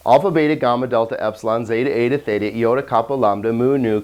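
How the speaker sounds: one quick unbroken run of letters; fast recitation without stopping; alphabet in one breath. Shown as a demonstration. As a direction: rattle off the whole alphabet in a single breath. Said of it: "like this".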